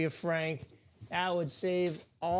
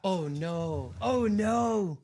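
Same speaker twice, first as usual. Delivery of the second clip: bleating goat voice; 3 semitones higher, much slower than usual. Acted. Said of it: "That's my best goat impression".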